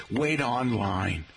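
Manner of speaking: slow, drawn-out New York phrase; New York accent. Retold or imitated. Host mimicking New Yorkers' wording, New York accent. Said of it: "from Long Island and New York".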